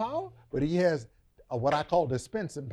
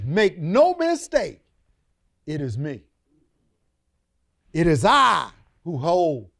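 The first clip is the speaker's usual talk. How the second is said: voice of God; 5 dB louder than usual. Acted. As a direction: proclaim it as God, deliberately. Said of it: "And he says".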